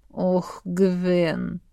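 lightly drawn-out sigh of a name. A narrator's reading. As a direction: stretch the name out with mock weariness. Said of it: "протянул муж".

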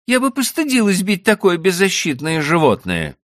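high, reproving woman's voice; reproachful wife. A narrator's reading. Wife reproaching husband for cruelty, high reproach. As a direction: scold him for beating the donkey.

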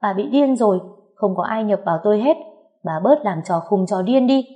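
fed-up cry at the fake shaman; annoyed yell. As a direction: shout her down in exasperation. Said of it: "bực dọc tôi hét lên".

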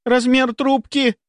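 high, slow, timid squeak; squeaked question. A narrator's reading. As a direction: squeak it to an intimidating boss. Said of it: "пискнула Соколова".

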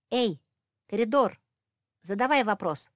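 loud call down the corridor. A narrator's reading. Mafi calls out to the corridor, loud shout. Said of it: "крикнула Мафи".

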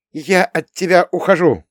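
high, loud breakup line; upset declaration. Acted. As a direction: blurt it out hurt and firm. Girl breaks up with him.

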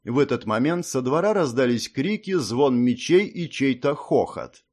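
ordinary delivery

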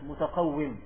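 متقوم said "mutaqawwim"; short i in the last syllable of متقوم; with kasra. Shown as a demonstration. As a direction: pronounce متقوم with kasra on the waw. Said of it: "ينصون في كتبهم على أنها بالكسر".

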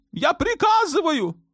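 put-on a shrill-free but very high, raging young sultan. A narrator's reading. Sultan demanding war on Malta from his mother, high raging voice.

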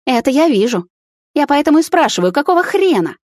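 high, loud furious yelling; angry shouting. A narrator's reading. Girlfriend yells at Miron, shrill furious shout. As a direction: scream at him, outraged. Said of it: "снова начала кричать девушка".

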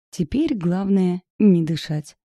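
plain reading voice

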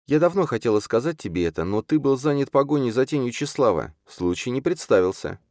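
high, urgent character voice; urgent Чарна. Acted. Чарна stops Юрген to warn about Йовар, urgent. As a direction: make the case earnestly, pitched well up.

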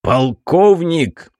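barked name, high, loud and slow; roaring tyrant king. A narrator's reading. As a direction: bark the name out like an angry tsar. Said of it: "рявкнул государь". (громко рявкнуть имя)

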